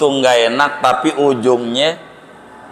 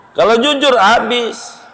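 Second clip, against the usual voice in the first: mock alarm; 10 semitones higher than usual. Joking that honesty ruins you.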